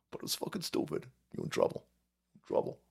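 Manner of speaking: mock whisper. Mock warning from heaven.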